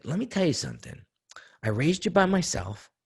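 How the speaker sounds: retold father scolding his son; fired-up father lecture. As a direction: lay into him like an angry father.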